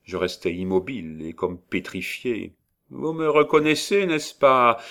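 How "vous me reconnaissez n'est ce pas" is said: high, loud, unmoved hag; calm, cold witch question. A narrator's reading. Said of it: "sans s'émouvoir".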